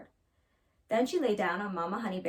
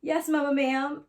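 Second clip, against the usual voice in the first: stammered; 5 semitones higher, 5 dB louder than usual. Acted. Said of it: "Leola stammered".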